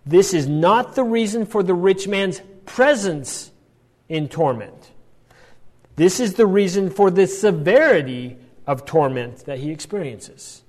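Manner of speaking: measured, pausing before key phrases; slow, deliberate. Real, not acted. Teacher restating a key point for the class, slow and deliberate. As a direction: spell the point out slowly, phrase by phrase. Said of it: "say that again slowly".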